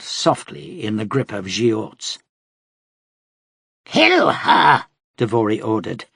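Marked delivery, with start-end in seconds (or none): 3.8-4.9 loud, high barked command; shouted order. Acted. Devori ordering his fighters to kill her, shouting. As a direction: yell the order across the room.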